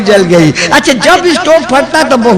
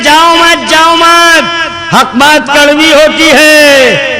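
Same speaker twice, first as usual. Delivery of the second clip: impassioned preaching; 3 semitones higher than usual. Acted.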